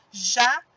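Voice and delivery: "Jacaré" split into ja, ca, ré with long pauses; syllable by syllable. Shown as a demonstration. Teacher showing pupils the sound of each syllable, syllable by syllable. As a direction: sound out "Jacaré" in three separated beats. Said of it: "Observem o som quando eu pronuncio".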